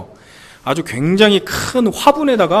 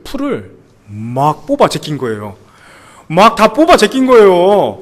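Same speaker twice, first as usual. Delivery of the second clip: shocked retelling; 4 dB louder, slower than usual. Real, not acted. Shock at pulled flowers.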